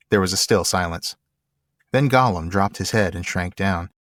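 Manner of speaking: measured storybook reading; story narration. A narrator's reading. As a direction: narrate evenly, pausing between phrases. Reads the story aloud.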